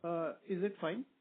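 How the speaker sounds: faint, far from the mic; speaking too far from the microphone; barely audible. Real, not acted. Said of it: "Not really".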